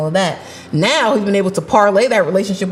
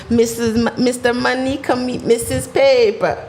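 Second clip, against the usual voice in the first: put-on Nigerian accent; 4 semitones higher than usual. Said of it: "Was that your African accent?".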